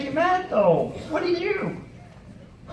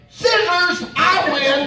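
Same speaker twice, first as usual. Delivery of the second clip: cheeky comeback; 6 semitones higher, slower than usual. Retold or imitated. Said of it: "I said".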